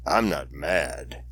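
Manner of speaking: a wife catching herself mid-word, playful; teasing wife. Retold or imitated. Wife teasing him about his trigger, lightly voiced and playful.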